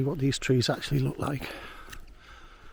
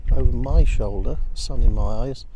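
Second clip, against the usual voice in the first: raised voice against strong wind; shouting over wind; 5 dB louder than usual. Real, not acted. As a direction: talk loud over the gusts. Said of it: "I don't know if you can hear me over the wind noise".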